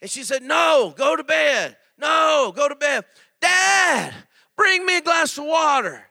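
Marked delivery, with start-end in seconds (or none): 0.4-3.0 mom scolding. Retold or imitated. Mother voiced in story. 3.4-6.0 high, loud call for Dad; child hollering. Retold or imitated. Child voiced again.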